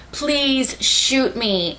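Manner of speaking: slow, drawn-out imitated plea; pleading. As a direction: beg slowly, a little high. Retold plea to be killed.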